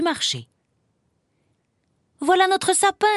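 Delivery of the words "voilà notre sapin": high cry of discovery; excited exclamation. A narrator's reading. Emma spotting the tree in the snow, exclaiming. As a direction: call out your find in delight. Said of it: "s'écria Emma".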